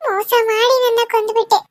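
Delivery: sobbing accusation; crying ghost. Acted. Ghost crying as she accuses Kishore of killing her. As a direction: cry it out as a betrayed lover.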